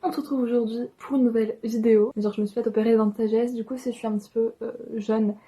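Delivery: talking with a swollen mouth; swollen after wisdom teeth. Real, not acted. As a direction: speak around sore swollen cheeks. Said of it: "ou que je suis encore un peu gonflée ou que je parle bizarrement".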